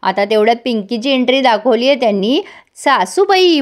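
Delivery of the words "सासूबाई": सासूबाई called out high and loud. Retold or imitated. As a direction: shout सासूबाई across the hall. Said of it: "म्हणून जोरात ओरडते ती". (जोरात हाक मारत सासूबाई)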